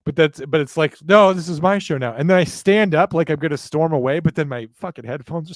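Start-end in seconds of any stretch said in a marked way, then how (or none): 1.0-2.1 louder, higher mock outrage, taking over the show; hammed-up huffy takeover; mock indignant outburst. Replaying his promo bit to chat, mock indignant.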